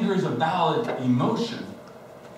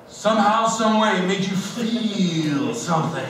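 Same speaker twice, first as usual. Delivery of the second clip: mock wife's logic; slower than usual. Mimicking wife's reasoning.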